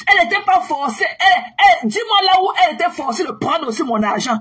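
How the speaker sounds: mots pris dans un rire moqueur; en riant. Real, not acted. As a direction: rire en argumentant. Laughing while arguing. (rire moqueur)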